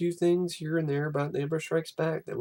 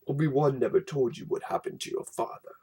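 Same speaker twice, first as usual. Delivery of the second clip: Vader voice; 3 semitones lower than usual. Acted. Vader's storybook line.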